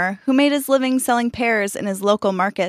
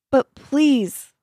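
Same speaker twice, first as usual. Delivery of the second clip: a pleading plea, pitched higher; begging; 6 semitones higher than usual. A narrator's reading. Monk begging the farmer for a pear, pleading. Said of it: "the monk begged once more".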